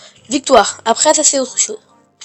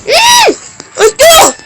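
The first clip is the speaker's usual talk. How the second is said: mock cry for help; 5 dB louder, much slower than usual.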